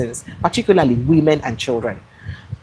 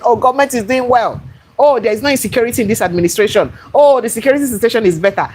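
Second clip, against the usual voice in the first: mocking supporters; 6 semitones higher than usual. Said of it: "people who are even supporting government and saying".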